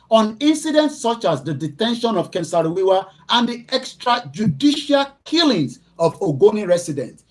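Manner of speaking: high, loud public reading of a document; report read aloud. Acted. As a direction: read it out like an indictment. Reads a human rights report aloud.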